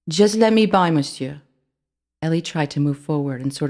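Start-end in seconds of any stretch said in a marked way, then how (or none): 0.1-1.4 high, louder pleading mouse; nervous plea. A narrator's reading. Ellie begs the rat to let her pass, nervous. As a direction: push past him though afraid.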